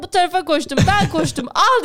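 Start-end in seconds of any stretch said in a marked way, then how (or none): 1.5-1.8 sharp bark, higher and louder; curt loud give. Retold or imitated. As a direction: thrust it out with one loud word. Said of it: "dedi bana kitabı".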